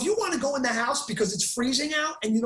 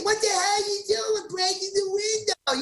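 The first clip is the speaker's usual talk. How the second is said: much higher, yelled rebuke as the friend; retold angry shout; 8 semitones higher than usual. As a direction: imitate Kenny shouting at the broken window. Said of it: "And he say".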